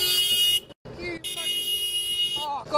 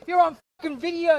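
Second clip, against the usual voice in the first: fast, loud threat; real road rage; angry yell; 7 dB louder, faster than usual. Real, not acted. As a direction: shout the threat at the driver.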